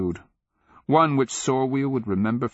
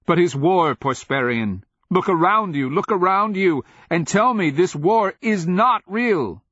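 high, loud, impassioned plea; desperate shouted insistence; heated protest; 10 semitones higher, 6 dB louder than usual. A narrator's reading. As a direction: argue at full voice, pitched way up. King argues heatedly with slave.

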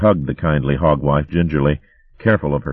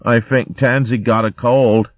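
innocent; 7 semitones higher than usual. Acted. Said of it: "smiled innocently".

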